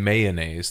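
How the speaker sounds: mayonnaise with MAY like the month; British mayonnaise. Shown as a demonstration. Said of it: "They don't say mayonnaise".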